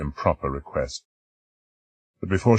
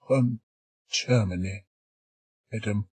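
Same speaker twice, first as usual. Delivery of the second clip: put-on shy girl; 5 semitones higher, 4 dB quieter than usual.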